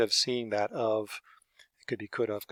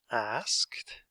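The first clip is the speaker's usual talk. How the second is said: whisper; 3 dB quieter than usual. Shown as a demonstration. Writing word on board.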